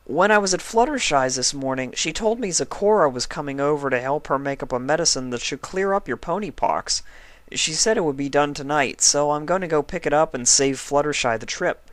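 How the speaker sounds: high, eager little dragon voice; young dragon Spike. Acted. Spike reassures sick Twilight, high young dragon voice.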